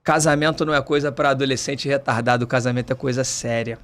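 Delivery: stern priest. Retold or imitated. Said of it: "meio Capitão Nascimento".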